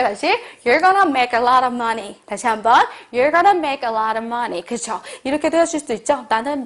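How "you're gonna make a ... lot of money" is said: slow, sure "you're gonna make a lot of money"; confident slow model. Shown as a demonstration. Teacher modelling a confident prediction for students. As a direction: say it with conviction, slowly. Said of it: "우리 한번 해볼게요".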